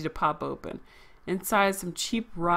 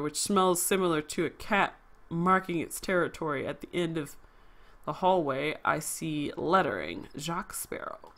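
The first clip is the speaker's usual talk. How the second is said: noir narration; 2 semitones lower than usual. Acted. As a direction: read it like a hard-boiled narrator, hushed. Reads noir game narration.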